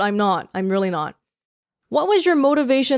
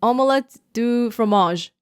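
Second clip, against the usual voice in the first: put-on foreign accent in French. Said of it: "can you try to speak French a little".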